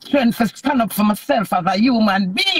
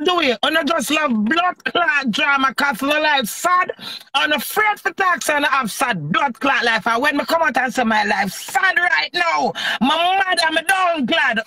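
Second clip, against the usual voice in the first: heated, forceful rant in rapid bursts of protest; real outraged self-defence; indignant denial. Real, not acted. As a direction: hotly deny it, hammering each point. Denies a rumour in heated rant.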